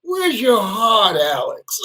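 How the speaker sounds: high, slow whimper; mock-crying plea. Pleading with Alex the assistant for sympathy, high mock whimper. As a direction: beg for sympathy. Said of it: "I said".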